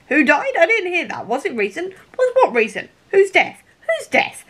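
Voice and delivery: high-pitched, swooping mock confusion; hammed-up baffled cross-talk; mock bewildered exchange. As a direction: act out a muddled back-and-forth, voice jumping up on the questions. Acts out a muddled, escalating dialogue.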